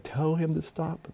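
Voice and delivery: demon voice. Retold or imitated. Demons speaking through the man.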